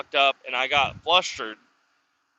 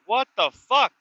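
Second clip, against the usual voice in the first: much higher, a stunned what-the-fuck; shocked outburst; 10 semitones higher, 4 dB louder than usual. Retold or imitated. Seeing the eviction notices, a high shocked outburst. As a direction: blurt it in disbelief, voice jumping up.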